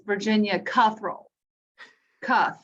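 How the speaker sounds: Cuthrell said "CUTH-rull", short uh; mother's mispronunciation. Retold or imitated. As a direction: imitate mom saying Cuthrell as "KUTH-rull". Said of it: "My mother says".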